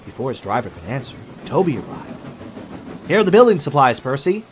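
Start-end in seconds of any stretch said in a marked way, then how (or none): 3.1-4.4 higher, louder delivery with effort; panting. A narrator's reading. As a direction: announce it as if puffed from the trip. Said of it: "he panted".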